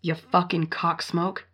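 a quiet, drawn-out curse at the abuser; slow disgusted insult. Real, not acted. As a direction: spit it out slowly in disgust. Disgusted reaction to the story.

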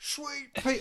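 mimicking sweet pea. Mates teasing about the girlfriend, high mocking sweet pea. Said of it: "He goes".

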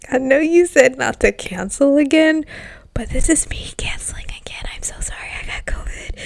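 sheepish whisper; guilty whisper. Retold or imitated. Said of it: "And I'm like".

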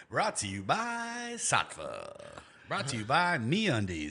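slow, drawn-out jingle delivery; mock sponsor read. Host faking a sponsor spot, slow mock ad read. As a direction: stretch out the sponsor names.

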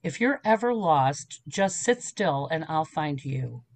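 put-on slow, deliberate reassurance to a child; mother's lesson. Mother telling lost daughter to sit still, slow and reassuring. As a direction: lay it down slowly like a calm promise. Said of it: "She goes".

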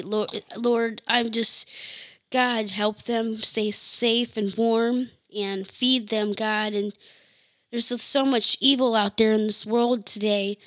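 heartfelt prayer. Real, not acted. Spontaneous prayer aloud.

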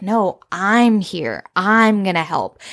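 slow, deliberate insistence; weight each word, slowly; firm reassurance. Retold or imitated. Jake insisting to sick Chelsea that he'll help, firm.

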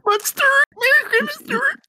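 put-on voice. Joking character voices among friends.

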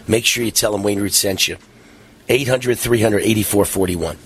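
announcer-style commercial read. Acted. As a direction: sell it like a live radio ad. Radio host reads sponsor ad.

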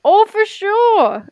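slow, high, laughing oh for sure. Retold or imitated. Imitating Minnesotans, laughing slow and high. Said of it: "They'd be like".

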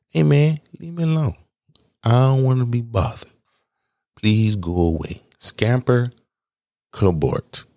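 high, whiny plea to be left alone; mock shooing. Telling people who praise him to scamper off, high and mock-whiny. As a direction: shoo them away in a hammed-up whine.

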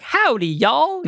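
high, drawn-out American howdy; stereotype American accent. Shown as a demonstration. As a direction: stretch it like a caricature American Southerner. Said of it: "How do Americans speak?".

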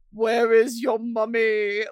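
slow, imitated British grandpa; mock British accent, drawn out. Confused grandpa asking a child for mummy, mock British accent. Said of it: "With a British accent?".

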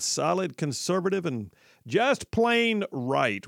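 slow, drawn-out tagline read; imitating announcer. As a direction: echo the station ID slowly. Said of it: "like that dude just said".

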